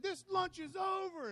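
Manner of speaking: loud, high furious declaration; imagined angry outburst. Pretend. Preacher imagining telling off his boss, furious shout. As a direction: slam it down like you're storming out. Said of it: "I said".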